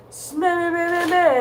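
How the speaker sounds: mocking a know-it-all with high nonsense babble; annoying windbag voice. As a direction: parrot him as a droning, annoying lecturer. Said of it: "talking in the most annoying voice".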